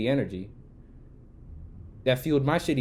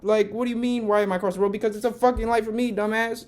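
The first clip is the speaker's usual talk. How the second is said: loud, high exasperated yell; 10 semitones higher, 4 dB louder than usual. Retold or imitated. Shouting back at the driver in the road, exasperated yell. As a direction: let the anger burst out at him. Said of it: "I found myself yelling".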